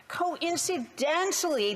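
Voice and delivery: drawn out slowly and pitched high; sarcastic coincidentally. Acted. MP mocking Liberal appointments in the House, slow and sarcastic. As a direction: lean into the irony, stretching every syllable.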